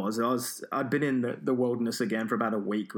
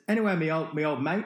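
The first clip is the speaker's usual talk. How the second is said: chummy farmer; 5 semitones higher, 4 dB louder than usual. Retold or imitated. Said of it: "wrapped his arm around me and says".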